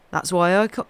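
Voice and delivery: slipped out of the Yorkshire accent; a false start without the Yorkshire accent; wrong accent. Shown as a demonstration. Narrator's take of Dickon's line that drops the Yorkshire accent. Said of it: "wrong la-, accent there".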